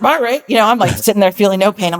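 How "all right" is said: high, loud eager all right; high loud delighted agreement; eager yes. Retold or imitated. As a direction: jump at it, thrilled.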